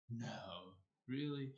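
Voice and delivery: sarcasm mistaken for British. Retold or imitated. Repeating the reply that sounded British, understated sarcastic. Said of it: "sounded as if I was British".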